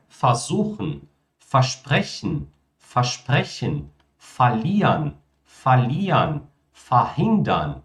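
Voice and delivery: versuchen said fazuchen, ver as fa; each word twice with ver reduced to fa; fa prefix. Shown as a demonstration. Teacher showing viewers the reduced ver prefix. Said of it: "Que é simplesmente fa".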